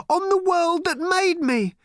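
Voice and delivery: put-on a girl's voice pleading in despair; crying teenage girl. A narrator's reading. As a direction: cry it out as the lost daughter. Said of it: "she cried".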